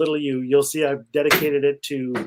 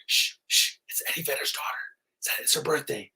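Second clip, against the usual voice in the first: hushed whisper, shushing the crowd; a mock hush from a whole arena; 6 dB quieter than usual. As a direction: whisper it so nobody misses her voice. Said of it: "twenty-six thousand of us were like".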